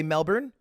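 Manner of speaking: Melbourne said the casual American way; Joe Rogan American. Shown as a demonstration. Comic lists ways to say the city, American Melbourne. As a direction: say Melbourne as an American podcaster would. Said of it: "You can Joe Rogan it".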